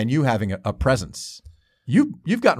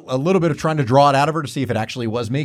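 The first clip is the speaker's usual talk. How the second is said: normal talking voice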